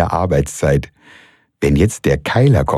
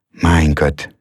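ordinary delivery

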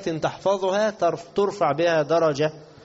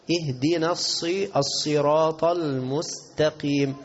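slow, drawn-out tajweed; Quran recitation; slower than usual. Shown as a demonstration. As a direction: recite deliberately with long held endings. (ترتيل بطيء ممدود)

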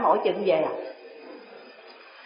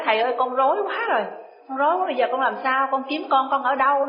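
flustered plea; 3 semitones higher, faster than usual. Retold or imitated. Disciple's panicked plea.

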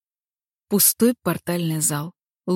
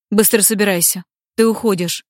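louder clipped command from the demon lord; curt order; 2 semitones higher, 5 dB louder than usual. Acted. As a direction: snap the order out. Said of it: "отрывисто бросил демон". (отрывистый приказ)

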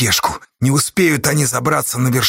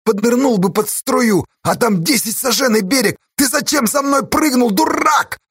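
anguished scolding; 8 semitones higher than usual. Acted. Scolding a friend on cliff.

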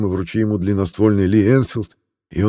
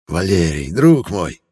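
lightly voiced old man, louder greeting; friendly old man; 4 dB louder, slower than usual.

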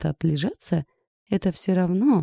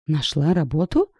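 disbelieving. A narrator's reading. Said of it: "недоверчиво переспросила Ирка".

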